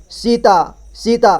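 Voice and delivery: सीता with the first vowel held long. Shown as a demonstration. Teacher showing learners the long vowel, सीता with a lengthened ee. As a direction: draw out the ee sound in सीता. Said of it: "लंबे समय तक पढ़ेंगे".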